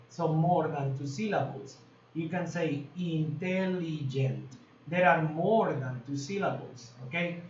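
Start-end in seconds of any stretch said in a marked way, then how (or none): 3.0-4.5 INTELLIGENT drawn out as in-tel-li-gent; syllable by syllable. Shown as a demonstration. Shows the word has several syllables.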